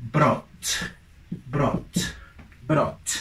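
brought, the vowel like "aw". Shown as a demonstration. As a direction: say "brought" with an open "aw", no r-colour. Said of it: "El pasado de bring es".

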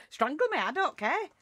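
giggly careless dare; laughing defiance. Real, not acted. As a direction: laugh it off, daring them. Laughing defiance after mock accusation.

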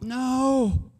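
high, incredulous yelps of protest; a squeaky mock outrage at the news; shocked disbelief. Listener told another redeemer is nearer, squeaking in mock disbelief. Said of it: "And you're like".

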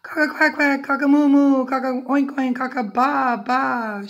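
high, loud run of jumbled animal calls; shouted alarm crowing. A narrator's reading. Cockerel raises the alarm at the fox, shouting. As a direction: shout the calls in one urgent string. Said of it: "shouted Cockerel".

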